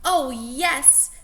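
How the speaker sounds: eager loud cry; children crying out. Acted. Children cheering for story hour, eager cry. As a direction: shout it happily like a class. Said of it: "cried the children".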